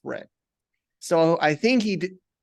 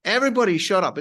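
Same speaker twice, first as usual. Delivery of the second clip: retold shout; 3 semitones higher, 4 dB louder, faster than usual. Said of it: "he's loud in my face".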